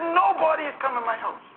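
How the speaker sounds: high mock Haitian-accented wail; high-pitched Haitian granny; Haitian old lady. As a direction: imitate an old Haitian woman in disbelief. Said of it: "she could hardly speak English".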